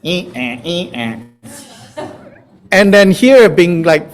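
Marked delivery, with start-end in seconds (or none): 0.0-2.1 low back-and-forth sawing sound; imitated sawing noise. Shown as a demonstration. Teacher shows the body sawn in two, mock sawing noise. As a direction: softly mimic a saw going to and fro.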